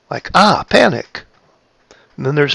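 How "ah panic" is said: a small, high "ah"; lightly acted little scare, pitched up; mild mock panic. Shown as a demonstration. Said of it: "is in the tone of my voice".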